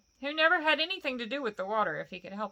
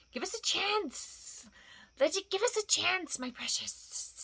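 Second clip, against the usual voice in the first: higher, slow whining plea; pleading creature; 9 semitones higher, slower than usual. Acted. Gollum begs Bilbo for more time, whining. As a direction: wheedle for time.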